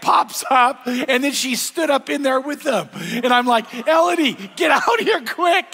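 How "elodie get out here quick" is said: put-on high, loud urgent call to a child. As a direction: call her out of the stall, fast. Grandpa calls out to child.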